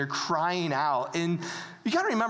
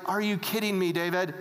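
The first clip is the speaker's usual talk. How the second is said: mock-weary, stretching out the complaint; exasperated but fond, dragging the end; comic exasperation. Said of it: "there's comedy happening".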